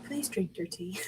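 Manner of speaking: hushed whisper; breathy urging whisper. Acted. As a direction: whisper it like a secret plea. Character urging tea, whispered.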